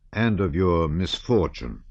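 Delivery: slow down and lean on "misfortune"; "misfortune" drawn out with deliberate weight; emphasis on misfortune. A narrator's reading. Stranger speaking to Pierre of his trouble, stressing "misfortune" slowly. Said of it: "He seemed to emphasize the last word".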